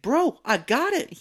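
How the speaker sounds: high, loud, stretched-out retort; imitating an overdone brush-off; mock exasperation. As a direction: insist it, hammed-up and fed up. Retort after being asked twice.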